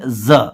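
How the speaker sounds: ज said as a buzzing "zuh"; "ज" as the buzzed zuh of letter Z; voiced z. Shown as a demonstration. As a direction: demonstrate ज as a vibrating z sound. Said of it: "vibration आएगा बोलते वक्त".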